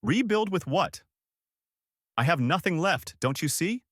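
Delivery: high-pitched despairing questions; mildly tearful despair; understated sobbing. A narrator's reading.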